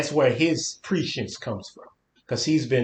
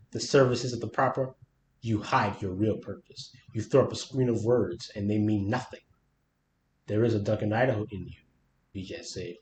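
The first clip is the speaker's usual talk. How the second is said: story narration. Acted. Reads the book passage aloud.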